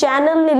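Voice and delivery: ચેનલની said like TV channel; common mispronunciation. Retold or imitated. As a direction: say ચેનલની with a 'ch' start. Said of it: "Actually, it's not channel". (Chanelનો ખોટો ઉચ્ચાર 'ચેનલ')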